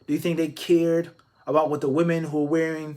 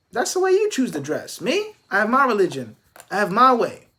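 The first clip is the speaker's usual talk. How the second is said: raised, steady voice, lightly acted; voicing a religious man; 4 semitones higher than usual. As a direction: speak as a proud believer unbothered by others. Speaks as the unbothered religious man.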